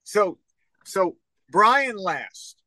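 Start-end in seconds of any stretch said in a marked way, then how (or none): 1.5-2.6 slow "Last" with the L from the back of the tongue. Shown as a demonstration. Co-host demonstrates how Brian says his L's, back-of-tongue L. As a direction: draw out the L in "Last". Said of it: "Brian says his L's like that".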